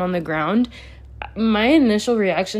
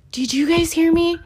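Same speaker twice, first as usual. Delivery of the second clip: outraged; 10 semitones higher, 4 dB louder than usual. Real, not acted. Outraged, repeating the shock to viewers.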